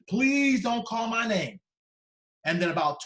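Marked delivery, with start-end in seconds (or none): 0.1-1.6 high, loud, slow pleading; drawn-out frightened plea, much higher and louder; desperate prayer. Retold or imitated. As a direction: beg under your breath as if your life depends on it. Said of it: "and I'm praying".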